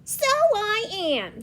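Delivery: high, loud, drawn-out delight. Acted. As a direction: gloat happily like a storybook animal.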